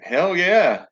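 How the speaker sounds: high, bright whoop of agreement; excited cheer. Real, not acted. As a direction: cheer it for the Aussie fans. Cheering Australian viewers in chat.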